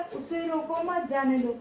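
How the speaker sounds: group "उसे रोको", then "मत जाने दो"; slight break after "रोको", attach "मत" to "जाने दो"; an order to stop, "मत" starting the second phrase; stop-him phrasing. Shown as a demonstration. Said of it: "यहाँ पे क्या है कि उसको रोक लो".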